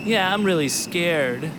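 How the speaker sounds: high, breathy-free girl voice, mock scared; Shinda voice. A narrator's reading. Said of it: "said Shinda".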